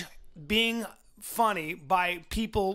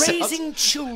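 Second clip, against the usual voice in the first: laughing; 4 semitones higher, 3 dB louder than usual. Real, not acted. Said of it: "laughs through the item".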